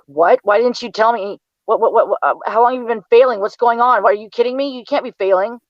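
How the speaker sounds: firing off worried questions at her son; shocked mother. Retold or imitated.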